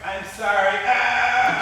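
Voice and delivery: loud high fake sorry; mock insincere apology. Rival apologizing with a mocking yelp. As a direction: apologize without meaning it. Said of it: "Not really sorry".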